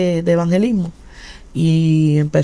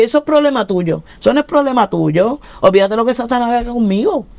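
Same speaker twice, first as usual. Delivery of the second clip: defiant snap; 5 semitones higher than usual. Retold or imitated. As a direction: throw it back at her, annoyed. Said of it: "Y yo le dije". (réplica desafiante, más alta y fuerte)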